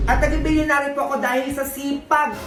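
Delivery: slow, deliberate showing off; boastful speech. Acted. Billionaire guest boasting to the audience, slow self-important speech. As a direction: spell out the riches word by drawn-out word.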